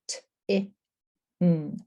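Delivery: "T, I, ng" as separate sounds; quick "T", short "I", held "ng"; sounded out. Shown as a demonstration. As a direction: segment "T, I, ng" with pauses. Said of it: "individual sounds in ting".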